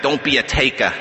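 imitated Brooklyn accent on a short admonition; Brooklyn-accented retold advice; Jerry McBride. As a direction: say "taker" the Brooklyn way, R dropped. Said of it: "in that Brooklyn accent".

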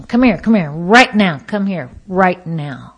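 mock yell summoning the waiter; retold holler. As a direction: order him over, hammering each command. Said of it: "I yell and I holler".

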